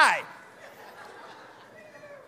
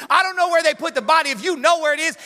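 lower, quick, sassy complaining to the gardener; sassy Mary rant; 4 semitones lower, faster than usual. Retold or imitated. Preacher voicing Mary scolding the gardener, lower and sassy. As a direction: tell the gardener off like a fed-up sister. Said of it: "She don't fix her lips and be like".

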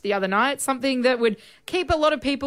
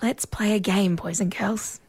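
spooky whisper from a haunted toy; creepy little voice; 4 semitones lower, slower than usual. Retold or imitated. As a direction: breathe it out like a ghostly toy. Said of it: "you hear a little voice".

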